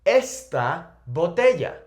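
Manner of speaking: "esta" stressed up front as ES-ta, then botella; stress on first syllable. Shown as a demonstration. Teacher gives an example of feminine this, "esta" stressed ES-ta. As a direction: punch the es of "esta". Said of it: "Esta in Spanish is the feminine".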